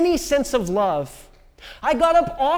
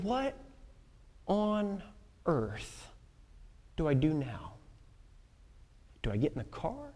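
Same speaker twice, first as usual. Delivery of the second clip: stunned wondering; 5 semitones lower, 13 dB quieter than usual. Retold or imitated. Inner wondering in shock.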